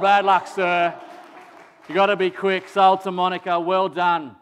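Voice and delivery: loud, fast auctioneer patter. Pretend. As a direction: work the room like an auctioneer. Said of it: "start off, however, with an auction this morning".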